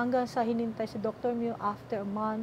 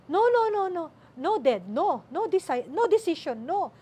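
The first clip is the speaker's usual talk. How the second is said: retold crying refusal; 4 semitones higher, 4 dB louder than usual. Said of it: "umiiyak na raw siya".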